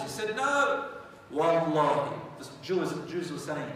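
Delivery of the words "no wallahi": insistent oath. Acted. Scholars insist to the king by oath, loud and urgent. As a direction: swear it to stop him.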